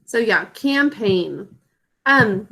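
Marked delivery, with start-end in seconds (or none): 0.5-1.5 slow dictation. Shown as a demonstration. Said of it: "sound it out with me".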